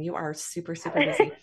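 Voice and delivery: a long pause between super and super. Real, not acted. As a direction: let "super, super busy" hang with a break after the first "super". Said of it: "I like that break".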